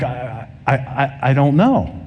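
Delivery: mildly frustrated stammer, slowing down; retold flustered, halting reply. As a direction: imitate a man stumbling for an answer. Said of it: "the guy became frustrated".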